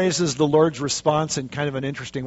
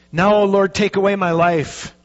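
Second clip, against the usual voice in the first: Jonah's cry; 3 semitones higher, 4 dB louder than usual. Acted. Voicing Jonah's plea.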